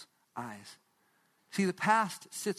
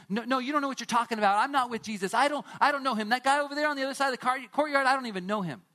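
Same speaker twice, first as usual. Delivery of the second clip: higher, louder and rushed, brushing it off; panicked denial; 5 semitones higher, 3 dB louder, faster than usual. Acted. Peter frantically denying Jesus to the servant girl. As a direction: blurt it out fast to get them off you.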